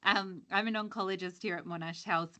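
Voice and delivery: speaking up. Real, not acted. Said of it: "I'll try and shout".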